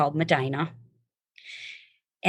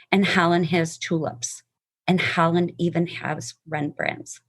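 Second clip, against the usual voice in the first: measured, earnest reading of a poem; heartfelt poem recitation. Acted. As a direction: read it like a cherished poem to a friend. Reads poem aloud to listeners.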